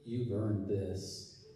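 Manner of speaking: low, slow, hushed murmur; drawn-out, low-pitched mock whisper; mock intimate whisper. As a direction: say it very slowly and softly, like a confidential aside. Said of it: "sometimes I'll whisper".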